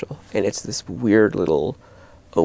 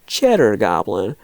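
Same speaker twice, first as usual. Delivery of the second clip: mock scolding; 3 semitones higher, 5 dB louder than usual. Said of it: "they're sort of scolding".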